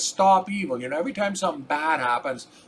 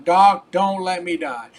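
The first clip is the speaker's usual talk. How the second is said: urgent, louder begging plea; desperate plea; 5 dB louder than usual. Retold or imitated. A dying patient begs his doctor, urgent and loud. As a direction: beg the doctor not to let you die.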